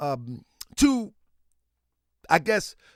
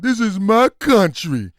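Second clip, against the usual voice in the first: mock proud patriot; 4 dB louder than usual. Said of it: "Sound like old slave".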